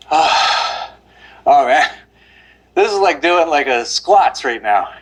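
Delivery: winded from climbing stairs; puffing between words on an incline; out of breath. Real, not acted. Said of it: "I'm gonna get so out of breath here".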